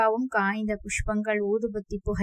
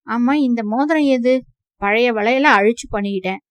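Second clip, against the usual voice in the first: heated quarrel; 5 dB louder than usual. Acted.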